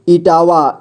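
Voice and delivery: इटावा drawn out as इ-टा-वा; syllable by syllable. Shown as a demonstration. Teacher showing beginners how to read इटावा, syllable by syllable. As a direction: sound out इटावा in three steps. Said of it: "जोड़ जोड़ करके ही पढ़ना होगा".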